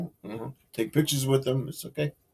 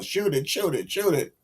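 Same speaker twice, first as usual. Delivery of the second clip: mock yell at ordinary volume, pitched up; half-voiced hockey fan holler, rising higher; imitated yelling; 5 semitones higher than usual. Retelling the shouts at the hockey game, mock yelling. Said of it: "all he did was yell".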